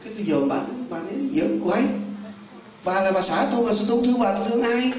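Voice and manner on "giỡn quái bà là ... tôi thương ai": raised-pitch retold protest; incredulous protest. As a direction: protest as a baffled husband, pitch climbing. Husband protests to possessed wife.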